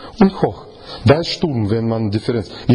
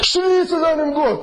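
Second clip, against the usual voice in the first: much higher insisting voice; sailors demand; 14 semitones higher than usual. Acted. Sailors urge Jona to cry to his God, high-pitched.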